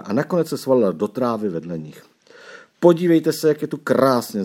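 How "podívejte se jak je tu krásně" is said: high-pitched delighted call; bright-eyed wonder, read as a child's exclamation; exclaiming. A narrator's reading. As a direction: call the others to look, lifted voice.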